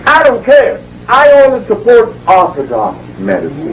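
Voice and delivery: high, dismissive imitation of a dismissive official; mock Eugenia Charles. Retelling how the prime minister dismissed him, mock high voice. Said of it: "she said".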